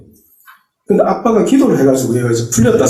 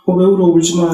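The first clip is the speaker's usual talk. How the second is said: soothing comfort; 5 semitones higher than usual. Retold or imitated. Father comforting crying daughter.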